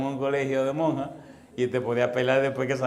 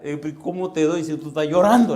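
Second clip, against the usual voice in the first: loud mock protest; retold yelling; 5 dB louder than usual. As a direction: yell it as an exasperated retold complaint. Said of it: "el tipo empieza a gritar". (grito de protesta imitado)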